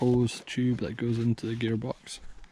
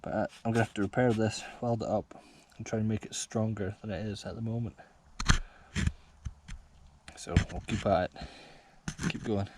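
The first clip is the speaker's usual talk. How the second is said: panting between words; gasping for air. Real, not acted. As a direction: still catching breath. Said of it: "Sorry, I'm out of breath".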